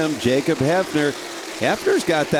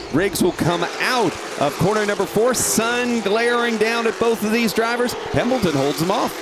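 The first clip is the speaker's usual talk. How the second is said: higher, rising race call; excited race call; 6 semitones higher than usual. Real, not acted. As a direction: call the fight for the lead. Battle for the lead.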